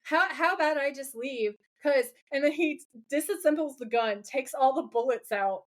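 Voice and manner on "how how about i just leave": mildly nervous, hesitant imitation. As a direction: edge toward an exit with halting fillers. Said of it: "smiling really nervous".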